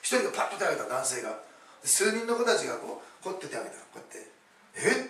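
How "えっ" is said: high, louder startled "huh?"; re-enacted startled reaction; surprised. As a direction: react in surprise, pitch jumping up. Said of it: "びっくりしてですね".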